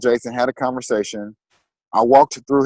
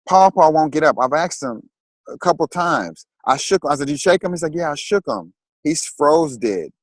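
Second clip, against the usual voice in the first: a lightly voiced small child, higher, matter-of-fact; child innocently reporting grandpa won't wake; little nephew; 5 semitones higher than usual.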